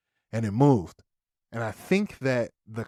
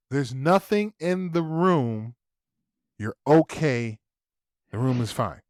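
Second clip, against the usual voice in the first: reassuring dad; 2 semitones higher than usual. Retold or imitated. Dad calming kids in story.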